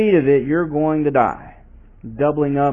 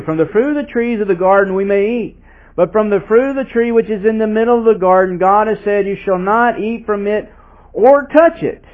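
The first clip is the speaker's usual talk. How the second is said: the woman answering, rising higher; climbing higher toward touch it; woman's answer; 7 semitones higher, 3 dB louder than usual. Acted. Woman replying to the serpent, rising pitch. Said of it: "The woman said to the serpent".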